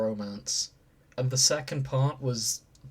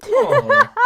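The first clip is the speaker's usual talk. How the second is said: laughing aw; 11 dB louder than usual. Real, not acted. Reacting to cute fan art.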